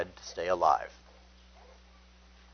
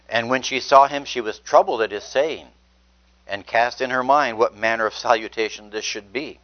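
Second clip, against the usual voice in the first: scripture reading; 3 dB louder than usual. Acted. Preacher reading the annunciation aloud, raised and proclaiming. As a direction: proclaim the verses to the room.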